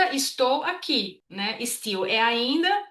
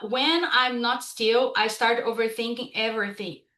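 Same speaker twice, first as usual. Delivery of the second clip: slow, careful English example read again; teacher rereading the example sentence slowly. Shown as a demonstration. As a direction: reread it slowly so learners follow. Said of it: "por exemplo, ali".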